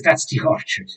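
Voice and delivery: very high squeak on "that's the orchard"; pointing out the orchard. Acted. Townsman shows the players the orchard in a high squeak. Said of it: "he says".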